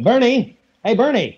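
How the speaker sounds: calling out. Acted. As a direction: call him over from a distance. Calling to cousin down drive.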